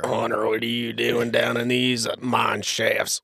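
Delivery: lightly voiced slow miner. Showing how to embody a miner, lightly put-on slow voice. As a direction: draw the words out like a hint of an old-time miner. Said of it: "how do you embody a miner?".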